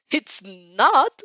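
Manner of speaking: sharp scolding rise. A narrator's reading. Monoma scolding the girl, sharp and disbelieving. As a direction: snap it back as a scold. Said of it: "Monoma scolds".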